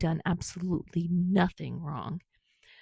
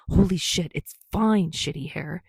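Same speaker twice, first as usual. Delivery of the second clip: growling; 5 dB louder than usual. Acted. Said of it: "he growled".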